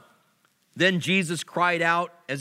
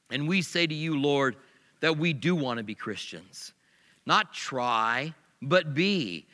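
closing prayer. Acted. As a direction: pray it humbly, slowing at the end.

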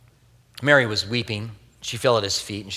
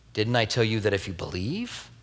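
hushed repeat; 3 semitones lower, 7 dB quieter than usual. Retold or imitated. Quiet repeated Jesus line.

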